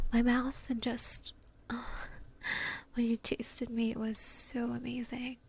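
tender afterglow. Acted. Lover telling partner how loved they feel, tender and hushed. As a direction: murmur it intimately, with lingering pauses.

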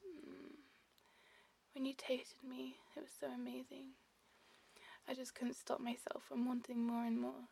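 breathy, whispered afterglow; tender intimate murmur. Acted. Lover recalling closeness to a partner, tender whisper. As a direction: murmur lovingly, close and unhurried.

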